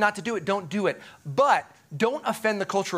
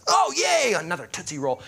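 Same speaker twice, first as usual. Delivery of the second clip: mock kid excitement. Kid dumping out Halloween candy at home, mock excitement. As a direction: act a kid's fake cheer fizzling out. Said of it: "you dump it out and you're like".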